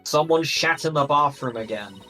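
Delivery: formal intercom announcement. Acted. Announcement over school intercom.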